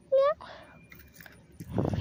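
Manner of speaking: a long, high rising meow; drawn-out meow. Pretend. Drawn-out meow to coax the kitten. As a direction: stretch the meow out to call it. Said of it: "meowing at the kittens".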